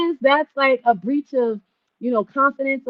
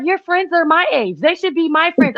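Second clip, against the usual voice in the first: imitating mom; 9 semitones higher than usual. Mom voiced claiming friends.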